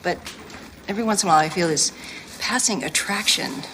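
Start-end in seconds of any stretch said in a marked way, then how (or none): 2.4-3.6 "passing" leaned on and drawn out slowly; slow, pointed weight on "passing"; stress on passing. Acted. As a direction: hit "passing" so it lands as a tease. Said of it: "with emphasis on the word passing".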